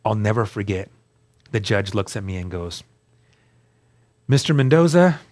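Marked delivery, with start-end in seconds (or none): 4.3-5.2 a judge's formal courtroom address, a bit higher and louder. Retold or imitated. Judge addressing the defendant in court, formal and raised. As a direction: call the defendant's name like a judge on the bench. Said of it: "this is how they talk".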